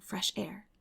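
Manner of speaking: ordinary delivery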